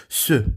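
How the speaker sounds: "Se" with lips rounded on the e; pouted mute e. Shown as a demonstration. Teacher showing the e with a pout, French mute e. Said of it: "de E com o biquinho".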